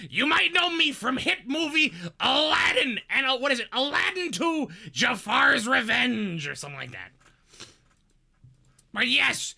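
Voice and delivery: Gilbert Gottfried voice. Acted. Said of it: "the Gilbert, Gilbert Gottfried".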